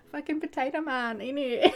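hammed-up English accent breaking into laughter; bad English accent. British landlord berating potato man, bad English accent while laughing. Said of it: "That was not my best English accent".

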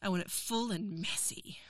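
breathy whisper, close to the mic; unvoiced intimate whisper. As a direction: drop to a pure whisper. Intimate roleplay aside.

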